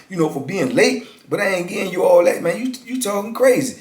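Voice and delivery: imitating the cellmate's angry no; mock heated refusal. Celly angrily refusing Teaspoon.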